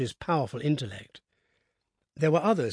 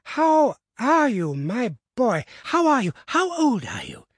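put-on high, slow delighted old man; gleeful eager old gentleman; greedy glee; 8 semitones higher, 3 dB louder, slower than usual. A narrator's reading. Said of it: "rubbing his hands with delight".

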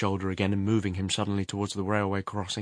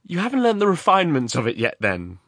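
high, loud, mildly artificial jollity; forced lightness; 8 semitones higher, 8 dB louder than usual. A narrator's reading. Answering the man who gripped him, artificially light. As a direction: make a joke of it, unconvincingly. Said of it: "laughing artificially again".

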